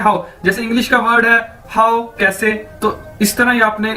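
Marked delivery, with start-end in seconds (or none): 0.0-0.2 हाउ like English how; हाउ modelled plainly, clearly; Chinese hǎo. Shown as a demonstration. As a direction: say हाउ as one gliding syllable. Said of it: "इसको कैसे बोलना है आपने".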